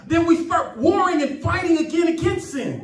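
impassioned pulpit voice; fervent preaching. Real, not acted. Preaching with full fervour.

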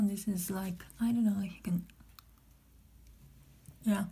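talking with finger in mouth; finger pulling cheek. Real, not acted. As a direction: mouth stretched open sideways. Seen 0: Finger hooks mouth corner, stretching cheek back while she speaks.

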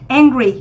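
"angry" opening on the open vowel of "cat"; flat e vowel. Shown as a demonstration. Teacher showing students the first vowel, "angry" with a flat e. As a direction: start "angry" with an open, spread æ. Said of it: "nó chính là nguyên âm e bẹt".

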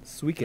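"Suikoden" as SWEE-kih-den; correct pronunciation. Shown as a demonstration. Host defending his pronunciation, "Suikoden" said SWEE-kih-den. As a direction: say "Suikoden" starting with a swee sound. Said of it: "That's the correct pronunciation".

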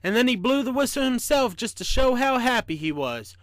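put-on animated children's reading; lively story narration. A narrator's reading. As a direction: tell it with a lift, as to children. Reads a children's book aloud.

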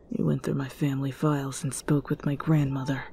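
low, soft, hurried mutter. Acted. Kudo accuses Hawks over his family files, muttering. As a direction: mutter it darkly under your breath, fast. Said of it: "he muttered".

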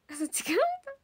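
high, loud surprised question. Real, not acted. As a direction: jump up in surprise. Surprised reaction.

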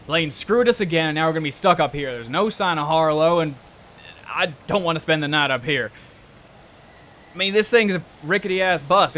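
loud, aggravated grumble in character; exasperated Block. Acted. Stuck bus passenger complaining to the group, exasperated. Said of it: "Block saying".

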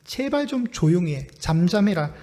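annoyed scolding. Retold or imitated. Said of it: "짜증 섞인 목소리로".

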